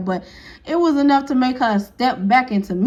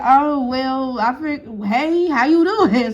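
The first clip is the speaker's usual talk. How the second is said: exaggerated greeting; 2 semitones higher, slower than usual. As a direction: overdo the polite hello to make up for it. Belated mock greeting after complaint.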